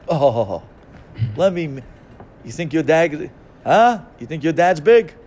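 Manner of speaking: a schoolyard bully sneering and jeering; mocking bully.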